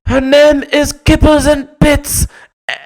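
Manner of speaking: very high, loud, slow falsetto pronouncement; hammed-up shrieking snooty owner; haughty owner. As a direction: announce the name grandly and shrill. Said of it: "they go".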